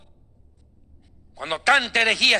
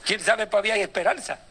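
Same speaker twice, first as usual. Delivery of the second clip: devil consoling; 5 dB quieter than usual. Pretend. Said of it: "el diablo dice".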